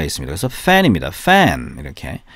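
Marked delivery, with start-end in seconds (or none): 0.5-1.8 "fan" with a stretched, doubled "a"; slow demo of "fa-an"; stress on later vowel. Shown as a demonstration. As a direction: draw out "fan", leaning on the back half of the vowel. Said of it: "뒤에 에 강세가".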